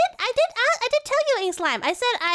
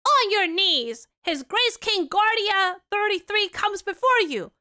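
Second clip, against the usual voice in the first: herald announcement; 2 semitones higher, slower than usual. Acted.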